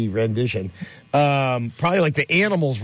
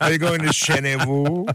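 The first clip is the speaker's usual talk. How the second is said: mock French accent; 3 semitones higher than usual. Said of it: "that French accent".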